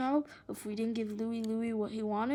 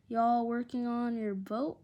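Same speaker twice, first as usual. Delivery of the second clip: put-on lazy Southern accent, drawn out; a light Southern drawl, easy and slow; soft southern drawl. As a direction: drawl it like a sunbathing Southern girl. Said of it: "She drawled in a soft southern accent".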